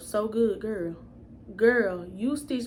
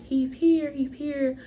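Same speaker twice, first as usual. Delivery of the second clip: higher, imitating an excited birth announcement; 4 semitones higher, 3 dB louder, slower than usual. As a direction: retell everyone calling out the good news. Delivery room announces the birth.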